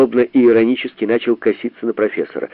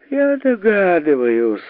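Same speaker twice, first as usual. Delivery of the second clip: slow, higher spiteful remark; spiteful exclaim; 8 semitones higher, slower than usual. A narrator's reading. The professor spites Sharikov, slow and higher. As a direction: say it with red-faced spite. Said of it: "злобно краснея воскликнул".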